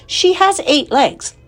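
slow, high, considered answer; deliberate, pondering child's reply; thoughtful. Acted. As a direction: work it out slowly aloud. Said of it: "said Fern thoughtfully".

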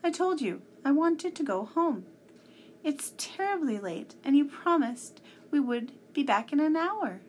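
high, loud indignant protest; storybook girl scolding in anger; angry. A narrator's reading. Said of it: "she said in an angry voice".

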